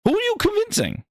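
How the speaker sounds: high, quick disbelieving question; exasperated repeat; incredulous yell. Real, not acted. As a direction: fire it back in disbelief. Repeated, higher and faster.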